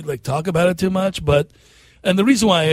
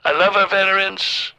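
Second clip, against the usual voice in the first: lightly voiced Trump, boastful and deliberate; a hint of Trump bragging to the crowd; Trump impression. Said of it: "Right, Fake Trump?".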